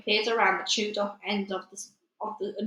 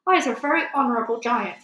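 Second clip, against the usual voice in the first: proud giant; 3 semitones higher, 5 dB louder, faster than usual. Acted. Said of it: "raised his great head proudly".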